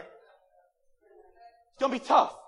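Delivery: slow, recovering after swallowing a bug; just swallowed a bug. Real, not acted. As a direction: push through a bug in the throat. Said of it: "Swallowed a bug or something".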